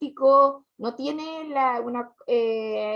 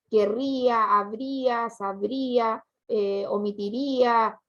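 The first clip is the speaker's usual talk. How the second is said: "querría, habría, sabría, omitiría" each leaning on the í; weight the í before the a in "querría, habría, sabría, omitiría"; stress on the í; 3 semitones lower, slower than usual. Shown as a demonstration. Teacher giving pupils more examples, "querría, habría, sabría, omitiría" stressed on í. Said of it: "se carga la voz en i".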